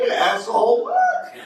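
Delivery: put-on high sneering teen voice, jumping up on what; mock a snotty thirteen-year-old; bratty teen. Teen mouthing off to a parent, high sneer. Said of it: "They're like".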